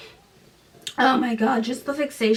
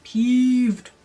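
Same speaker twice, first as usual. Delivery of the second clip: loud clipped "Peeved"; 3 semitones higher, 6 dB louder than usual. Shown as a demonstration. Narrator echoing the girl's annoyance, loud. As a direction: spit out the word like an annoyed teen. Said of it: "she's just peeved".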